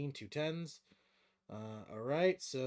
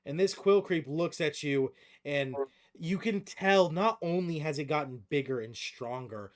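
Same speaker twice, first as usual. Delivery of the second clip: game master narration; 7 dB louder than usual. Acted. Game master describes merged monster.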